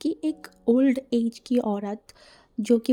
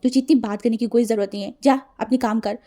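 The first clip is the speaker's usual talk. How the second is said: louder, fast telling-off; brisk, louder scolding; stern rebuke; 4 dB louder than usual. Acted. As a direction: cut him short sternly. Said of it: "wing की तरफ घूर के देखा".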